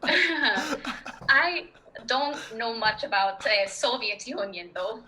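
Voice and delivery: Russian accent on the edge of laughter. Shown as a demonstration. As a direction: hold the Russian accent while amused. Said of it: "inside of a Russian accent".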